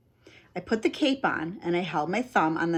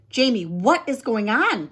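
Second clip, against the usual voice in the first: demanding; 3 semitones higher, 4 dB louder than usual. Acted. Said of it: "demanded Rima".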